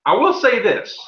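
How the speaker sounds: a hint of a pompous judge; lightly voiced small-town judge; stern judge. Game master voices the judge.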